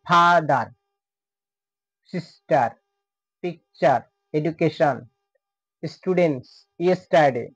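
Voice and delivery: "সিস্টার" and "পিকচার" split in two with a short pause; syllable by syllable. Shown as a demonstration. Teacher repeating the syllable examples, sounded out part by part. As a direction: sound out "ফাদার" in separate syllables, each word ending on a fall. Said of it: "ততটুকু অংশকেই syllable বলে".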